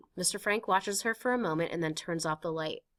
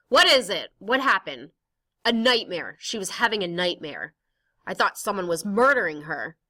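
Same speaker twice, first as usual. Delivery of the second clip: alarmed neighbour; 7 dB louder than usual. Acted. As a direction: burst in asking what happened. Mr Van Daan rushes down after scream.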